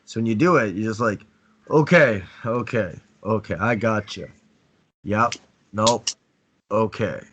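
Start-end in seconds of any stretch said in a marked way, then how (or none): 1.7-7.2 slow strong demo. Shown as a demonstration. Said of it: "come in slow and strong".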